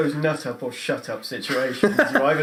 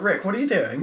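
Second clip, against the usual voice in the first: higher-pitched British accent, hammed up; 6 semitones higher than usual. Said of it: "start talking very British".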